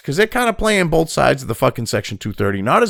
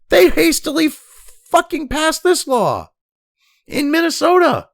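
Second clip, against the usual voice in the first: angry shout; 8 semitones higher than usual. Real, not acted. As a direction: hammer it out in outrage. Ranting at lawmakers.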